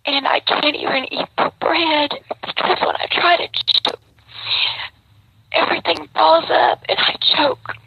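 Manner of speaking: upset, pitched high and strained; pushing through tears to explain; emotional. Real, not acted. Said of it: "I'm getting emotional".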